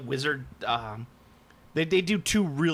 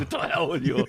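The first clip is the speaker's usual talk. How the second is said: lightly voiced echo of a movie barbarian; imitación de Conan. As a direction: parrot the barbarian's defiant line. Echoes the Conan quote.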